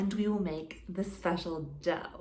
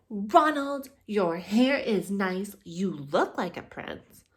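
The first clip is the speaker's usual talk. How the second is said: sassy put-down; 4 dB louder than usual. Acted. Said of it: "Elizabeth said".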